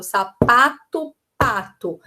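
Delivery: "sapato, pato" with PA punched in both; stressed rhyming syllable. Shown as a demonstration. Teacher showing teachers a rhyme, stressed PA in "sapato, pato". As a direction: lean on the shared PA in "sapato, pato". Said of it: "elas têm que ter a mesma sílaba tônica".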